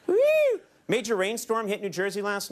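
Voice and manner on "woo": quick high "woo"; short whoop. Real, not acted. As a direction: let out a brief whoop. Host's own whoop between jokes.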